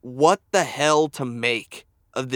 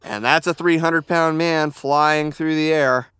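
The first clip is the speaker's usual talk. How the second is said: announcer voice. Acted. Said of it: "Mike, uh, vamp".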